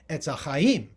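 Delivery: ETZ ACHAIM with no H starting the second word; Sephardic silent H. Shown as a demonstration. Lecturer showing the silent Hey, Sephardic pronunciation. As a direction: drop the H and begin ACHAIM on a bare A. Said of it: "So you say".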